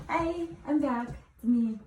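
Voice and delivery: sniffly, stuffed-up voice; runny nose. Real, not acted. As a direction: talk through a runny nose. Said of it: "My nose is running".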